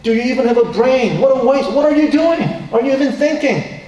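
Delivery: hammed-up outrage, scolding the woman; angry scolding. Disciples scolding the woman over wasted perfume, hammed-up angry voice. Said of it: "they were saying something like".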